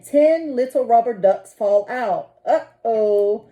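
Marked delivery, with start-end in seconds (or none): 2.5-3.4 mild shout. Acted. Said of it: "shouts the captain".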